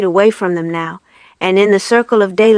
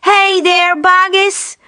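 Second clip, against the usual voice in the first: calling out; 10 semitones higher, slower than usual. Acted. Crowd calls down to farmers.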